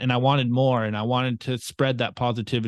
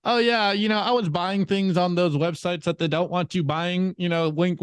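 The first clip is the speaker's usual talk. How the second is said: sly cousin; 4 semitones higher than usual. Retold or imitated. Voicing younger cousin's sly confession.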